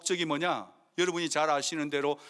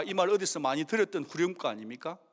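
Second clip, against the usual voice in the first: ordinary delivery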